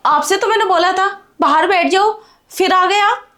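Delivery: exasperated scolding. Acted. Bahu scolding her father-in-law for coming back inside, exasperated. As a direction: snap at him for coming back in.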